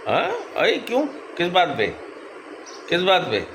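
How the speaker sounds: high-pitched, coaxing questions; cajoling a sulking pet. Real, not acted. Owner asking his sulking parrot what is wrong, cajoling.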